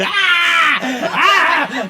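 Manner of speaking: high, loud shrieking laugh imitation; high cackling shriek of laughter; imitated howling laugh. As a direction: howl with laughter like the toothpick guy. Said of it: "he laughed, he was just going".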